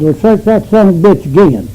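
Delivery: mildly angry command; retold mad order. Angry man ordering another search of the prisoner, mildly mad. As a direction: give an irritated order, lightly acted out.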